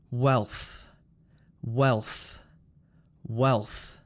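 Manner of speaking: low "Wealth" with a burst of final th; explosive final th. Shown as a demonstration. Teacher models words for repeating, explosive th ending "Wealth". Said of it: "explosive th sound at the end".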